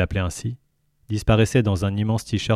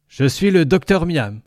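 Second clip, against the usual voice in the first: higher, louder creature voice; gurgling tentacle alien; 8 semitones higher, 4 dB louder than usual. Acted. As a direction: speak as the jovial alien. Lintel voice.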